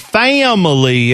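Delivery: a bit of Southern drawl on family; imitated Southern "fam-uh-lee" with an extra syllable; Southern twang. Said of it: "He added the extra syllable".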